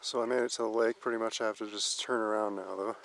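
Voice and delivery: breathless after the climb; words pushed out between breaths. Real, not acted. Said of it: "Out of breath here".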